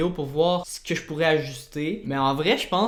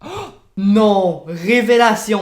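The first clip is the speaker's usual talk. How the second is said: loud, higher eureka cry; excited discovery; 5 semitones higher, 9 dB louder, slower than usual. Real, not acted. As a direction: shout out the happy accident. Découvre un effet par hasard. (cri de découverte fort et aigu)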